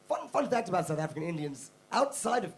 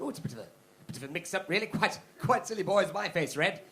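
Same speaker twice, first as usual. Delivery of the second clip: sheepish posh Brit; 3 semitones higher than usual. Retold or imitated. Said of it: "the British were like".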